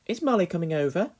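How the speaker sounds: high, suspicious mother's question; probing mother. A narrator's reading. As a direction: probe lightly as Mother. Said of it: "beginning to probe".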